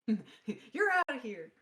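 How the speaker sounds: loud, high, drawn-out send-off; mock ejection call. Player joking about being kicked from the game, loud mock ejection. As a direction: call it out like an umpire, stretched.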